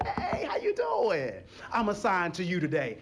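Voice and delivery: lightly voiced trouble with a laugh; trouble personified. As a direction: greet them like a grinning troublemaker. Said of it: "Now trouble said".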